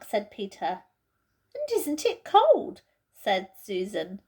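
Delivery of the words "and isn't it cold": put-on raised, girlish voice, impatient; Susan's voice. Susan, cramped in the wardrobe, complains impatiently. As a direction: voice a fidgety girl stuck in a wardrobe.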